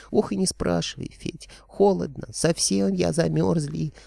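squeaky dragon head complaining of the cold. A narrator's reading. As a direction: squeak it out like a small shivering creature. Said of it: "пропищала левая".

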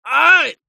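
short high yelp of pain; loud painful cry. A narrator's reading. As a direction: yelp as he's knocked down. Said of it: "Вновь крик".

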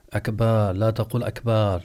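أكبر said as akbaar; long vowel. Shown as a demonstration. Teacher warns the worshipper, showing stretched akbaar. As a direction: lengthen the "ba" each time in أكبر. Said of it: "لا تمد".

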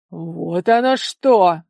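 slow, loud grinding anger; through gritted teeth. A narrator's reading. Father suspicious of his daughter, through gritted teeth. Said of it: "проскрипел зубами родитель".

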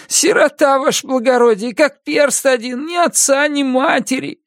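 high, whining convict voice; pitiful orphan plea. A narrator's reading. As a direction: play the poor orphan for pity. Prisoner claiming to be an orphan.

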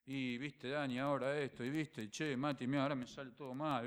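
mock whining about everything going wrong; a soft, self-pitying moan; whiny complaining. A believer complaining to friends, in mock whining.

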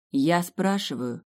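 slow, patient explaining. A narrator's reading. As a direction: calmly spell it out. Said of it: "терпеливо пояснила я".

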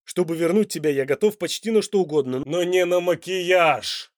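man loudly refusing makeup; insistent. Acted. Dante protesting against makeup.

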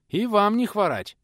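high, slow, cheery greeting back; hearty reply. Acted. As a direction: answer the princes with gusto. Old man's hearty greeting.

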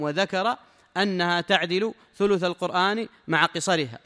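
loud, slow, measured recitation of the text; formal text reading. Acted. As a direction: read each phrase out slowly to the students. Reads the sheikh's text aloud. (قراءة المتن بصوت عالٍ وبطء)

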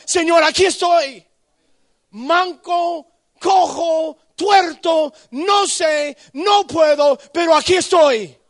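grito agudo y muy fuerte a Dios; lánzalo como quien se entrega entero; clamor a gritos. Acted. Crying out to God at full force. (el predicador clama a Dios, gritando con fuerza)

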